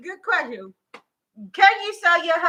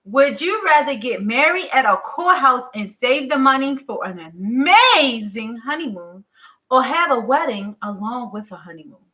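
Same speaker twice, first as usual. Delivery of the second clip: sophisticated voice. Acted. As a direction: read it like a fancy host. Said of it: "Why you talking like that?".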